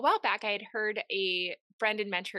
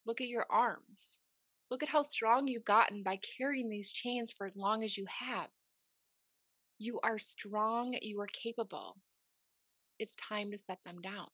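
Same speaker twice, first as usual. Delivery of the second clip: tender God voice. Retold or imitated. God speaks tenderly in dream.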